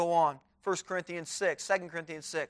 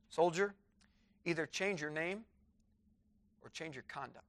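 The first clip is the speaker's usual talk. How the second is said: quiet stern verdict; 6 dB quieter than usual. Acted. King's quiet final verdict.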